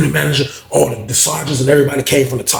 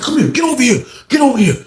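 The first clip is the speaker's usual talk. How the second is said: guards shouting; 10 semitones higher than usual. Retold or imitated. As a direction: yell at him to come now. Guards yell after knife thrown.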